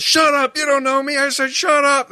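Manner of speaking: high, loud panicked shout; acted freaking out. Rookie cop silencing man who knows him, acted panic. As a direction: yell over him in hammed-up panic. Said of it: "Parker freaks out".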